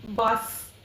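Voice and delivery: बास sounded out as a separate syllable; syllable split. Shown as a demonstration. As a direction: say बास alone and stop. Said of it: "यहाँ पे टूटा".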